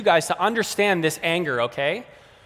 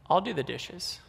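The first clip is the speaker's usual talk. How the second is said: stuffing it; 8 dB quieter than usual. Acted. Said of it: "you can stuff it".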